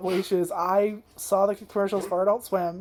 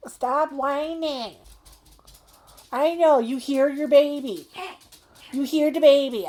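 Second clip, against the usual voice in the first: soothing the dog; 7 semitones higher, 4 dB louder, slower than usual. Real, not acted. Talking to the whining dog.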